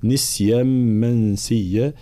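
slow recitation, "نسيا" begun with ni; kasra on nun. Shown as a demonstration. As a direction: clear i after the n of "نسيا". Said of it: "يقرأه الإمام قالون بكسر النون". (كسر النون في "نسيا")

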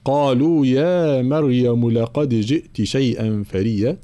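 measured recited verse; verse recitation. Shown as a demonstration. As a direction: recite the line for study.

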